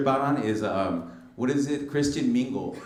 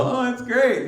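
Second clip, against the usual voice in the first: mocking white kid; 11 semitones higher, slower than usual. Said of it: "White kids like you watch it and go".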